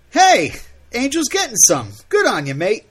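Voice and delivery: put-on loud, high drunken British taunt; drunk Spike. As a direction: cheer him on like a drunk. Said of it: "Okay, Spike".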